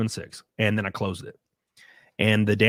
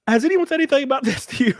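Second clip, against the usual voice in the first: stunned disbelief; 5 dB louder, faster than usual. Retold or imitated. Stunned question about Nazi medals.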